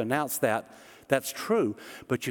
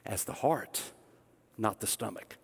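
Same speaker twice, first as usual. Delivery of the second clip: soft emphatic close; 5 semitones lower, 8 dB quieter than usual. Real, not acted. Sermon point, dropped soft.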